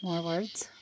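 soft unvoiced whisper. Real, not acted. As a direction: whisper the question back. Whispering back to spirit box.

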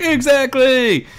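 high, slow, smug "exactly"; a hammed-up know-it-all voice; smug mock kid. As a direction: drag it out high and self-satisfied.

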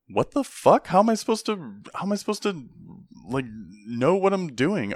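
high, strained mock panic; panicked recruit. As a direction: squeak it out like a lost new soldier. Panicked recruit voiced in story.

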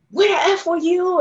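imitating an angry partner yelling across a theater; retold scream. Partner bursts into the dark theater, retold yell. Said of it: "he's screaming".

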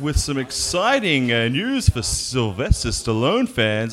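bright news-reporter delivery. Acted. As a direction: present it like a local entertainment news spot. Reporter intro to camera.

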